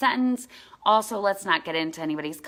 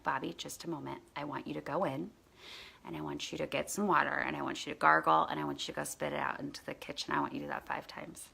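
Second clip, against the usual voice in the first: quiet instructions; 2 semitones lower, 6 dB quieter, faster than usual. Retold or imitated. Calming the sprayed child.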